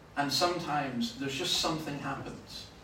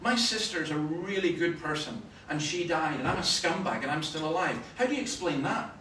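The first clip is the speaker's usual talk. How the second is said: having a go; 4 semitones higher than usual. Retold or imitated. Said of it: "then he started having a go".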